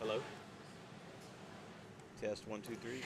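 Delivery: faint, distant mic sound; mic too far away. Real, not acted. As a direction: voice far from the microphone. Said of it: "put that mic closer to your mouth".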